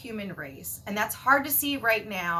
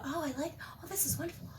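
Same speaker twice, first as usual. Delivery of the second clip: blissful delight; 9 semitones higher than usual. Retold or imitated. Voicing her blissful high-vibe self, delighted. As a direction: melt into delighted gratitude. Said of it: "I'm used to".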